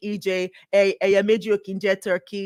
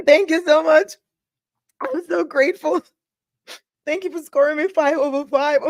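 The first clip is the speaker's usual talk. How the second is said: much higher, squealing mock gratitude; mock award speech; 10 semitones higher, 4 dB louder than usual. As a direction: gush like a winner accepting an award. Acting overwhelmed by perfect rating.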